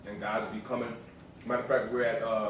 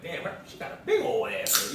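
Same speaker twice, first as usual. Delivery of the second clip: high, sassy admiring aside; crude admiring remark; 9 semitones higher than usual. Retold or imitated. Couple joking about passersby, mock-admiring and high. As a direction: say it like catching sight of someone. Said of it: "we'll say something like that".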